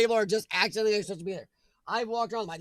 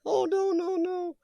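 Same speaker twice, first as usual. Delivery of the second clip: much higher, laughing protest; laughing dismay; 10 semitones higher, slower than usual. Real, not acted. Reading chat about UK councils, laughing dismay. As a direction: squeal it through a laugh.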